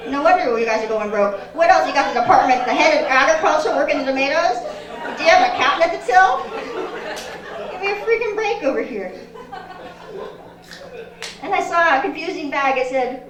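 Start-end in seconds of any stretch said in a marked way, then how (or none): 1.5-9.1 louder, fast mock outrage; hammed-up indignant rant. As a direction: pretend outrage at the store's staffing. Ranting about grocery staff.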